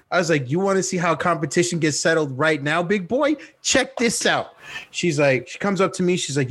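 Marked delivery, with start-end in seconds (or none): 0.5-4.5 cocky challenge. Retold or imitated. Acted cocky challenge to friend.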